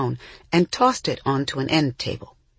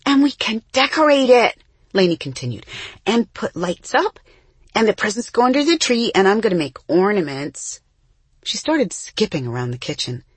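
put-on high, fast, bubbly child voice; excited little girl; 6 semitones higher, 3 dB louder than usual. A narrator's reading. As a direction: chatter on like a thrilled kid. Young Lainey excited about tree.

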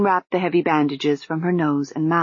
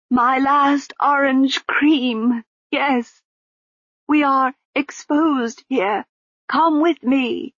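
slow, higher, muffled woman; muffled lady's voice; 7 semitones higher, slower than usual. Acted. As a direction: calmly urge her along, muffled. Lady Lejeune, muffled, calm.

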